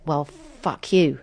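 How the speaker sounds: slow, muttered-under-the-breath defiance; the thought, held back; slow inward retort; inner fuck you. Retold or imitated. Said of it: "started feeling a bit".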